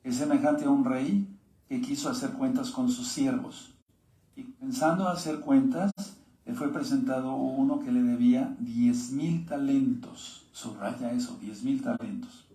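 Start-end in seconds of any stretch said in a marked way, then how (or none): 0.0-10.5 steady, earnest Bible reading to the congregation; preacher reading the parable to his listeners, earnest; scripture reading. Acted. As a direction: read the verses out clearly, like a preacher. Reads scripture passage aloud.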